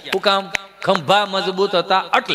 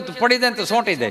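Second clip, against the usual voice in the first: ordinary talk, nothing marked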